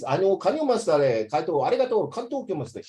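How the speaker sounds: a hint of playful Japanese accent; mock Japanese. Tutor joking about learning Japanese, with light mock Japanese. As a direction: toss off fake Japanese phrases for a laugh. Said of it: "talk like Japanese".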